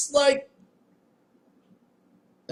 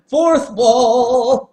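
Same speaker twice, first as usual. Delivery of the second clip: excited shout; 7 semitones higher, 9 dB louder than usual. Real, not acted. Laughing shout at the game.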